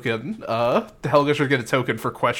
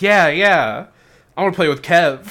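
put-on eager kids chiming in; 5 semitones higher, 4 dB louder than usual. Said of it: "all the other kids".

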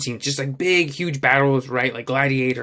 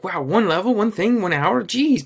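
higher-pitched imitation of disbelief; mock incredulity; 5 semitones higher than usual. Gamer imitating someone hearing about the hour-long fight, incredulous. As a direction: play the astonished outsider. Voicing an outsider's incredulous reaction.

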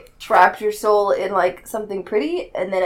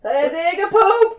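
shout; 12 semitones higher, 5 dB louder than usual. Acted. Repeat shouted after quiet take.

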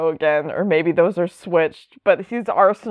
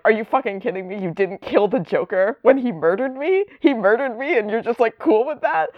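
mock outraged Jason; 4 semitones higher than usual. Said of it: "And Jason's like".

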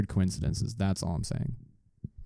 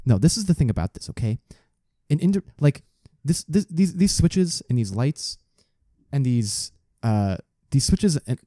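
conspiracy theorist; 4 semitones higher than usual. Pretend. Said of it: "Can you do the conspiracy theory voice?".

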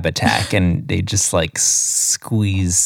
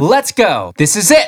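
high hammed-up battle cry; fighting game catchphrase; 9 semitones higher than usual. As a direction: shout it like a fighter entering.

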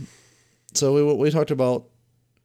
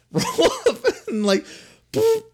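high laughing voice rolling up; laughing at the idea; much slower than usual. Acted. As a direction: giggle through the words. Imagining invisible army rolling up.

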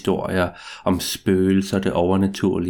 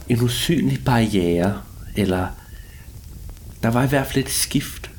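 story narration. A narrator's reading. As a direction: draw out each line like a ghost story. Spooky first-person tale after intro.

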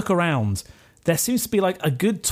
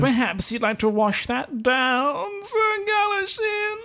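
high, slow, quavering wheedle; wheedling offer; 11 semitones higher, slower than usual. Retold or imitated. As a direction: slide the drink to him sweetly. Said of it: "Sir Ector comes over and is like".

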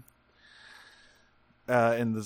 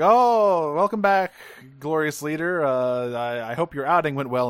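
fawning, high and loud; sycophant voice; 3 semitones higher, 5 dB louder than usual. Retold or imitated. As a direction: suck up to the boss, hammed-up. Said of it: "sycophant mode".

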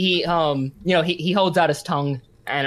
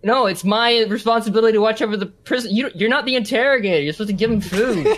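indignant, slightly raised protest; protesting guard; 4 semitones higher than usual. Acted. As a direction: insist on your authority, exasperated. Guard argues with the interrogator.

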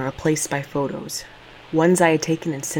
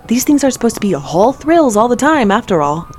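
yelling; 6 semitones higher, 7 dB louder than usual. Acted. Mid-air jump, yelling.

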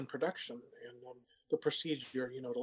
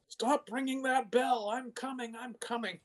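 annoyed sea witch; 9 semitones higher than usual. Retold or imitated. Sea witch imagined answering a ringing doorbell, mock annoyed. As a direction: grumble like a cranky witch hurrying to the door. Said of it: "She was very annoyed".

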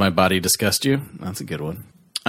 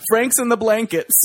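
much higher, gleeful mock Arnold; 12 semitones higher than usual. Podcaster acts out Arnold loving his snack, high gleeful mock voice. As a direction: squeal it like Arnold savoring the snack.

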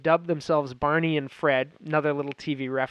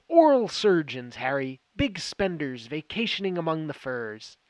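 Cooper, excited. Retold or imitated. Agent pitching their cover story to Harry, retold with excitement. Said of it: "Cooper gets all excited".

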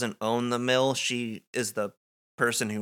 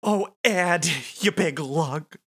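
lightly raised gushing wife voice; Nadine voice; 5 semitones higher than usual. Acted. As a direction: coo at him, a bit higher. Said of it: "she says".

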